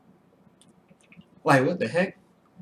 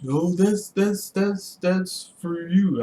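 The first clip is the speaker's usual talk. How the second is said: mock sheepish wife; 8 semitones higher, much slower than usual. Wife caught, making excuses.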